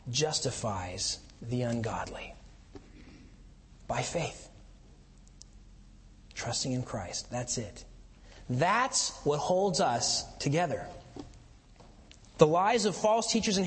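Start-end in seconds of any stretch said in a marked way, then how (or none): 0.1-7.8 hushed whisper. Real, not acted. Preacher hushing the congregation on grace, whispered. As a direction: drop to a near whisper, awed.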